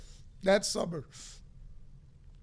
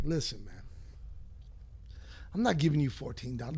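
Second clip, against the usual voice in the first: dad voice; 6 semitones lower, 7 dB quieter, faster than usual. Retold or imitated. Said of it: "he was like".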